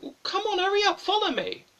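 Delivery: high-pitched, exasperated hurrying; mock impatient call, pitched high; impatient urging. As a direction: chivvy along a partner who won't budge. Player urges partner who won't follow.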